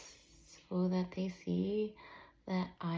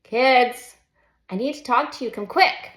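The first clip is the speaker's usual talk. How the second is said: put-on louder, higher call to the kids; mom shouting; 5 semitones higher, 10 dB louder than usual. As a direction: shout it from the top of the stairs. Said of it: "shouts Mom".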